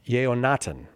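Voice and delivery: Yeonatan said with no h, as yay-oh-NAH-tun; tentative mispronunciation. Real, not acted. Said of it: "I hope that I pronounced that right".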